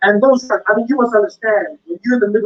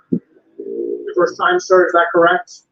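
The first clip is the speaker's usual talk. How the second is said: very slow, lower, drawn-out officer voice; slow mock interrogation; 9 semitones lower, much slower than usual. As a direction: stretch it out like a suspicious officer. Officer repeating question.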